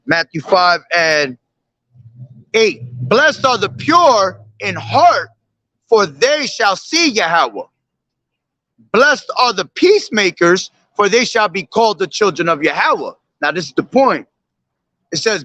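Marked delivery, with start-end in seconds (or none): 3.1-13.1 solemn measured recitation of the verse; scripture reading. Acted. Preacher reciting scripture to his listeners, solemn. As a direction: read it out like holy writ.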